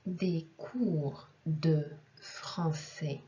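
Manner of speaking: slow teaching delivery, phrase by phrase; slow model answer. Shown as a demonstration. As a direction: pause between small word groups for learners. Model answer for French learners. (lecture lente, mot par mot)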